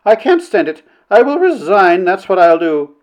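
high, wailing self-pity; hysterical complaint. A narrator's reading. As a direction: lament as if on the edge of sobs. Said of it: "between hysterical sobs she managed to stammer".

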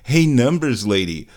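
high slow call. Acted. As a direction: sing out the question slowly. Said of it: "while I ask the numbers lady".

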